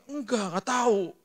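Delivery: put-on slow, high, timid child reply; scared child. A scolded son answering his father, slow and high. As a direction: answer like a frightened little kid. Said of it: "di marah-marah".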